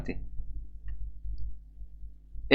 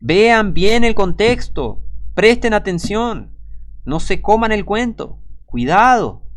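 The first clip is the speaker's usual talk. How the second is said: slow, raised, drawn-out warning; urgent preacher's caution, higher and slower; emphatic warning; 5 semitones higher, 3 dB louder, slower than usual. Real, not acted. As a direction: warn them firmly, pitched high and stretching the words.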